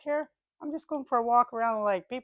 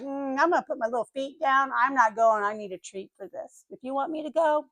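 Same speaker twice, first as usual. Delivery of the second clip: lightly voiced balky little dogs; playful imitation of reluctant dogs; stubborn dogs; 4 dB quieter than usual. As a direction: dig in and bargain, trailing off softer. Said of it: "Howie and Lola, they're like".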